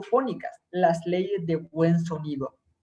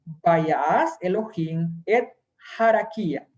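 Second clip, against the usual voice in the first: slow, deliberate reading of Hebrew; lectura pausada; 3 semitones lower, slower than usual. Shown as a demonstration. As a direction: read the Hebrew verse out slowly, word by word. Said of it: "Y dice así". (lectura lenta y pausada del hebreo)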